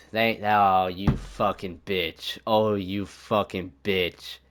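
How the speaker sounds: slow furious curse. Real, not acted. Goal conceded, cursing his goalie.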